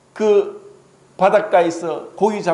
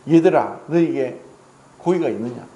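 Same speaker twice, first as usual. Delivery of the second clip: gentle call; 5 semitones lower than usual. Acted. Risen Jesus calls to disciples.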